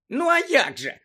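very high, loud retort; impatient місіс Фік. A narrator's reading. Old woman answering the boy, impatient. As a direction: toss it back impatiently. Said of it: "нетерпляче відказала місіс Фік".

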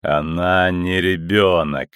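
low, slow and ominous; slow cold metallic voice. Acted. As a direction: repeat it slowly and coldly. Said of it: "повторил голос". (медленный холодный голос)

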